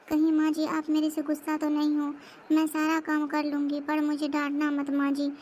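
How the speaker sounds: mildly fearful pleading. Acted. Daughter-in-law begging mother-in-law not to scold, timidly fearful. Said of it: "ये हमेशा बेचारी डरती क्यों रहती है".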